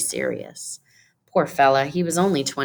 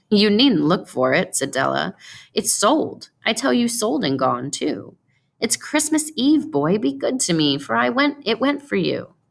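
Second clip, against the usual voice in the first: put-on higher, eager pleading young wife; Della, pleading; 6 semitones higher than usual. Della pleads with her husband over her cut hair, higher and eager. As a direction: rush to win him over, anxious and hopeful.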